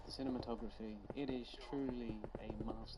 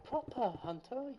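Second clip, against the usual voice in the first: incredulous; 11 semitones higher than usual. Acted. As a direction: question it with rising, scornful disbelief. Mocking echo of spouse's praise.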